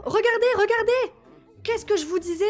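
high, loud excited call; yelling look look at the screen; excited shout. Real, not acted. Excited at gameplay result.

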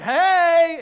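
loud, high, playful hey; flirty hey. Retold or imitated. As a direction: call out to her like a flirt. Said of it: "I'm like".

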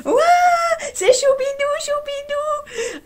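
high, loud shriek of the channel name; excited fan shout. Retold or imitated. Young fan spotting the vlogger, shrieking her name. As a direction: squeal like a starstruck young fan. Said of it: "Comme ça, elle fait".

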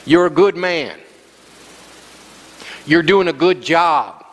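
low-pitched, measured encouragement; reassuring. Retold or imitated. Preacher to depressed caller on phone, reassuring. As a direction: reassure a struggling friend, retold.

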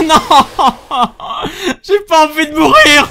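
high, loud, whining plea; real panic, half laughing; panicked plea. Real, not acted. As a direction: beg not to die. Facing the boss.

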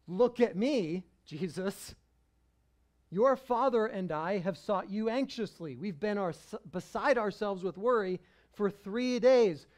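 a worried mother scolding Jesus after three days; stern mom. Retold or imitated. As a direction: mom using her son's full name, dead serious. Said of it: "That's like when mom says your full name".

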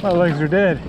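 winded after the climb; panting from hard pedaling; out of breath. Real, not acted. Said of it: "Oh, I have no legs".

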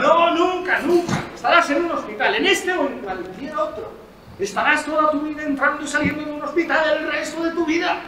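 loud, driving insistence; relentless menace. Acted. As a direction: hammer the patient down. Doctor pressing relentlessly.

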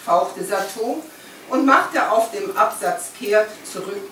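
measured literary reading aloud; lifted phrase openings, falling sentence ends; story narration. A narrator's reading. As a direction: read the novel to an audience, phrase by phrase. Reads aloud from the book.

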